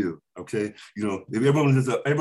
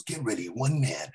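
trailer voice; 3 semitones lower, 4 dB quieter, slower than usual. Shown as a demonstration. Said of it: "he goes, he goes, he goes".

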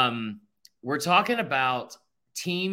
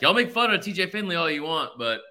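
lightly put-on Southern accent; 4 semitones higher, 3 dB louder than usual. Quoting a friend defending T J Finley, light Southern accent. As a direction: quote him with a hint of Southern twang. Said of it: "I'm giving a Southern accent".

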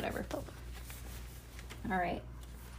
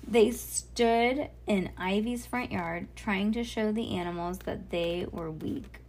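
measured, clearly projected storybook reading; story read-aloud; slower than usual. A narrator's reading.

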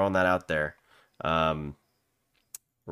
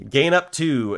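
laughing; 6 semitones higher, 6 dB louder, slower than usual. Real, not acted. Laughs at odd item name.

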